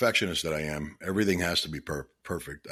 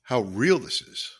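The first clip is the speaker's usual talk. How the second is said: fighting back tears to keep talking to listeners; choked up with emotion; 3 semitones higher than usual. Real, not acted. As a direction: voice catching, long pauses between phrases. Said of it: "I get pretty emotional about this stuff".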